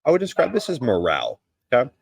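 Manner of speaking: talking around a cigar; words past a cigar in the mouth. Real, not acted. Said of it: "Let me take a puff of this cigar".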